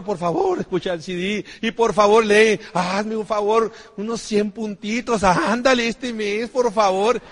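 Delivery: slow, drawn-out coaxing please; pleading. Retold or imitated. Begging a distributor to read, slow pleading. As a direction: coax them like a beggar. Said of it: "Ahí rogándole a la gente".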